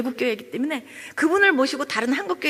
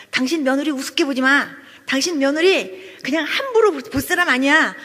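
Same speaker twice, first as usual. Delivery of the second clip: retold warning, pressing louder toward the end; firm admonishing; 5 dB louder than usual. Friend to father-in-law about his daughter-in-law, firm admonishing. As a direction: put him firmly in his place.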